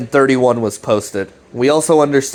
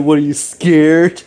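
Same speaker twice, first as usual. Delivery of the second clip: teasing; 4 semitones higher than usual. Retold or imitated. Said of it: "Chris is like".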